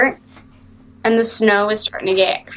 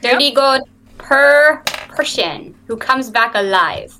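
halfling voice; 3 semitones higher than usual. Acted. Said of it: "Let me find my halfling voice".

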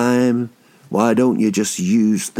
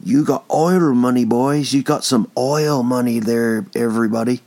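put-on mixed American cowboy accent. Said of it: "Don't know what that accent was".

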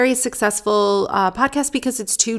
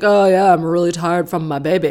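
mocking tired dad; 5 dB louder than usual. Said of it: "you're like".

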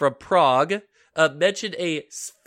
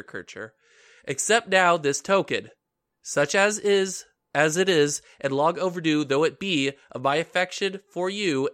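put-on measured reading of an old letter; stately, deliberate recital of a letter; formal letter reading. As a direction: read it out formally, phrase by phrase. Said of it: "try and read it differently".

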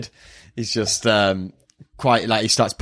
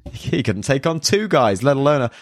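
dismissive; 4 semitones higher than usual. Retold or imitated. Girl retold brushing off Yusuke in front of friends, dismissive. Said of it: "dismissive of Yusuke".

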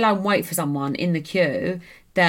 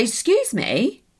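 indignant retort; 6 semitones higher, much slower than usual. Retold or imitated. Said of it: "So I was like".

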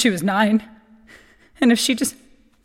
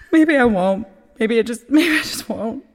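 sad sigh; 4 dB louder than usual. Acted. Eulogy, voice breaking.

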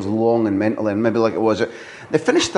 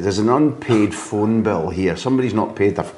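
put-on George's Georgian accent. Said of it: "I can't do the George accent".

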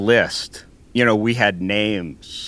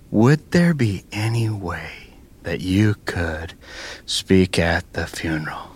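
imitating her plea; slower than usual. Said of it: "Did I say it that way?".

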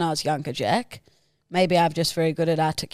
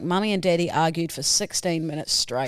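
laughing; 3 semitones lower than usual. Real, not acted. Co-host tickled by the "Mummy and Daddy" message, laughing. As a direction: repeat it through real laughter.

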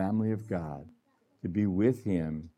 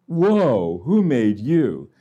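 amazed whoa; 2 semitones higher, 7 dB louder, much slower than usual. Retold or imitated. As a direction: gasp out a delighted whoa, then slow the question. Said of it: "You just go".

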